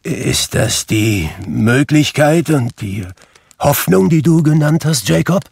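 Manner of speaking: high, loud quavering fearful question; trembling voice. A narrator's reading. Scrooge, dreading the spirits, asks Jacob in a high trembling voice. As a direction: ask with dread rising. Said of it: "fragte er mit bebender Stimme".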